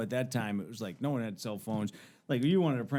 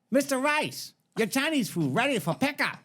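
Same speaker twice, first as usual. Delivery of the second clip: put-on high caricatured Asian accent; high takeout caller in a mock Asian accent; 12 semitones higher, 3 dB louder than usual. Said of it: "you can't do an Asian accent".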